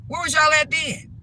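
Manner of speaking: high, loud accusing question; angry challenge. Real, not acted. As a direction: demand an answer from absent relatives. Challenging relatives absent during beating.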